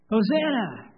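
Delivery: Hosanna! shouted loud. Shown as a demonstration. Pastor leading children's parade, shouting. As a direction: lead the parade call Hosanna!. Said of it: "when I shout".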